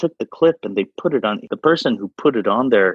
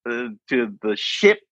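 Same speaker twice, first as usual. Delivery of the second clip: mock proud American; 5 semitones higher than usual. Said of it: "that kind of that pride thing".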